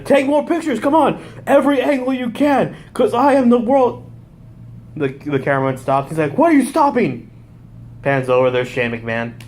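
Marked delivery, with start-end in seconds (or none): 0.0-4.1 high-pitched, pushy mock yell; yelling at cameraman. Wrestler ordering a cameraman to take pictures, mock yelling. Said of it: "he's yelling at the cameraman". 6.4-7.3 high, indignant mock yell; yelling at cameraman. Wrestler to a cameraman who stopped, mock yelling. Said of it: "he's yelling at the cameraman".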